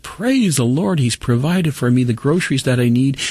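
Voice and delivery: very high exultant cry of praise; storyteller's elated mock shout; retold joyful shout. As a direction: imitate her jubilant shout at moderate volume. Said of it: "she shouted".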